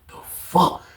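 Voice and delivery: hushed disbelief under breath; whispered curse. Retold or imitated. Narrator whispering to himself in shock, hushed. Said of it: "He was like".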